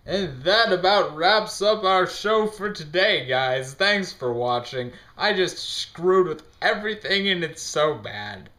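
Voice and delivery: high, loud, drawn-out show closer; hammed-up sign-off. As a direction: overblown host wrap-up, pitched high. Mock sing-song sign-off gone wrong.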